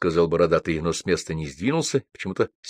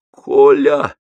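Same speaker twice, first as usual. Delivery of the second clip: loud, raised call to a friend; shouting; 8 semitones higher, 9 dB louder than usual. A narrator's reading. Аксаков hails his friend Коля, shouting. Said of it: "закричал Аксаков".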